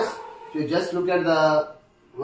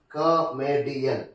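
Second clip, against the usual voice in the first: broken into syllables; 3 semitones lower, slower than usual. Shown as a demonstration. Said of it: "the third syllable".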